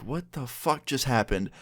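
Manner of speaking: slow, hushed disbelief; retold shock. Storyteller recalling reaction to teacher's drunk texts, stunned. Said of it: "I was so shocked".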